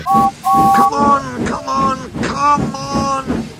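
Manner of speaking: high, straining repeated urging; cross puffing. A narrator's reading. James urging the trucks uphill, crossly puffing. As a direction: urge crossly in a high, effortful puff. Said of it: "puffed James crossly".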